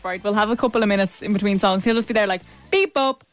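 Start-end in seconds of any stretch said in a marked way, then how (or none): 2.7-3.2 high beep-bop singing noises; impression of Jazz. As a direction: squeak out beeps and bops. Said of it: "give an impression of me when the mics are off".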